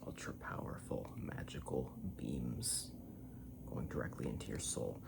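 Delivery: lightly voiced low, mystical proclamation; mock-epic voice. Mock-epic praise of a drink's magic.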